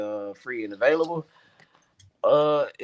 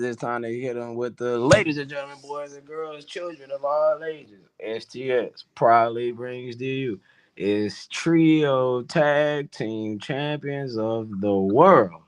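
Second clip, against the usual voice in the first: ringmaster. Acted. Announcer style show closing intro.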